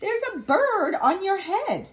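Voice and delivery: high, slow, squeaky-bright pig friend; Piggy voice. Acted. Reading to kids, Piggy tells Gerald, high and slow.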